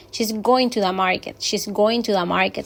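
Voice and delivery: GOING and MARKET stressed, "she's" and "to the" light; stress on main verb. Shown as a demonstration. Teacher modelling correct intonation for students, emphasis on GOING. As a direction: lean on "going", skim "to the". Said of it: "Se le está dando el énfasis".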